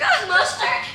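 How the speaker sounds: very high, laughing "mustard"; retelling the giggling girl at the counter; mimicking laughing girl. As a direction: squeal it through laughter like the coworker. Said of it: "the girl was like".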